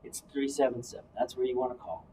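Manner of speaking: low, even announcer read. Pretend. Co-host giving listeners the coaching phone line, announcer voice. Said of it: "that's my announcer voice".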